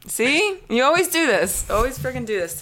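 loud, high-pitched mock complaint; mock outrage. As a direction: play up the betrayal. Mock outrage at being fooled.

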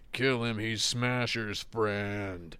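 lightly voiced Johnny, the second half dragged out very slowly; stubborn Johnny, stretching the reason out; imitating Johnny. Johnny insists again on killing.

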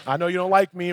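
mock-friendly hey, then thinly veiled dislike; cordial frustration. Pastor and doorman trading greetings despite their tension, cordial frustration. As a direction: imitate polite greetings over mild irritation. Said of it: "it was kinda like this cordial frustration".

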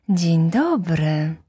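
roses. Acted. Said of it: "odpowiedziały róże".

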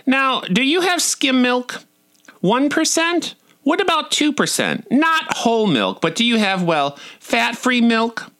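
high, slow imitation of mom; high fussy mom listing milk options; fussy mother. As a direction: mimic a fussy mother drawing out questions. Mother quizzing waitress about milk.

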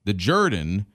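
Jordan said as JUR-dn; Southern-drawl pronunciation. Retold or imitated. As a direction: say "Jordan" with an ur vowel, like burden. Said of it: "really just some sort of Southern drawl".

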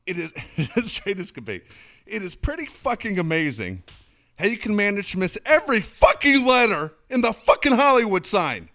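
high, loud sarcastic son's voice; mocking angry son. Son scolding his mom over the photos, high sarcastic voice. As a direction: sneer at your mom's useless photos.

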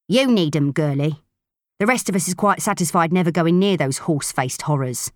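put-on rough, scornful old crew hand; gruff old spacer woman. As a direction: sneer at the girl's plan. Proser voiced by narrator.

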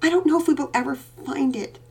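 put-on high little-girl voice, close to tears; cling to hope in a child's voice; desperate little girl. A narrator's reading. Daughter at bedtime telling her father she despairs. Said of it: "she said desperately".

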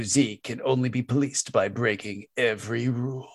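dramatic movie trailer narrator; gravelly trailer voice. Pretend. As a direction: read it like a gravelly blockbuster trailer. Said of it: "my best gravelly trailer voice".

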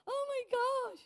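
high, loud burst of disbelief; shocked exclamation. Retold or imitated. Pastor reliving the woman's phone remark, shocked and loud. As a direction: gasp it out, scandalised.

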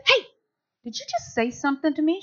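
soft, half-whispered question; hushed aside. Retold or imitated. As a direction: whisper it to the person next to you. Whispering to neighbour during testimony.

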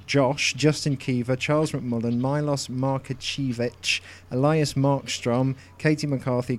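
rattling off names without breathing; all in one breath. Real, not acted. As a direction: race through the list in one breath. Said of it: "Try to do it without taking a breath".

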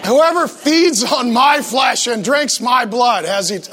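slow, punched-out, dramatic scripture reading; heavy-metal proclamation. Acted. Jesus sounding like a heavy metal band, dramatic proclamation. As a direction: stretch and hammer each key word. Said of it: "sounds like a heavy metal band".

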